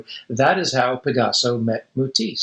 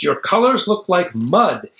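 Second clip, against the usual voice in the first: raging; 4 semitones higher than usual. Acted. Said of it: "Matisse raged".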